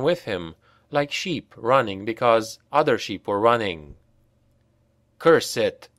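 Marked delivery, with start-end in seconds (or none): none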